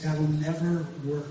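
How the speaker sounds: slow, emphatic doubt; retold objection. Believer answering the Lord's blueprints, flatly doubtful.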